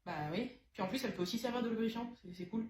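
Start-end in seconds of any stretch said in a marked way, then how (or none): none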